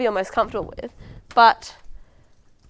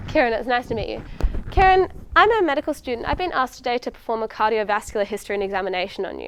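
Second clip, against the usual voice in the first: a touch of role-play doctor. Acted. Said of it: "let's role play the introduction".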